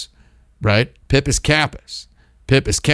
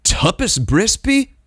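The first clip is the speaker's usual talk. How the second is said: high, slow first try at a made-up word; tentative new word; 9 semitones higher, slower than usual. Real, not acted. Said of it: "And I spoke aloud".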